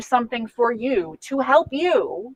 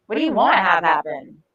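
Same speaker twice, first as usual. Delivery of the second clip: neutral, lower-pitched open question; non-judgmental; 3 semitones lower than usual. Shown as a demonstration. Coach asking what the goal is, non-judgmental. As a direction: ask it openly, without any blame. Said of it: "as non-judgmentally as possible".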